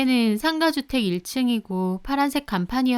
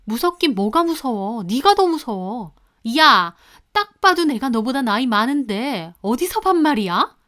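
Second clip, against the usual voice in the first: louder mock yell; 3 semitones higher, 5 dB louder than usual. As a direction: bark back at the daughter-in-law, affronted. Mistress shouts back.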